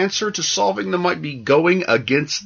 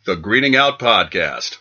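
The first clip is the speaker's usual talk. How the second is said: lively podcast ad read with big emphasized brand names; sponsor read. Acted. Reads the sponsor list.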